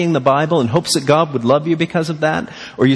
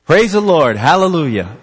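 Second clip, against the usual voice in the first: mock praise; 4 semitones higher, 3 dB louder than usual. Mock joyful response, then "They're angry.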